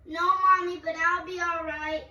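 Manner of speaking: acted distress. Acted sick child in prank.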